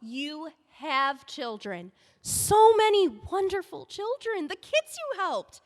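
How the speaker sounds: emphatic insistence. Acted. Insisting she has children.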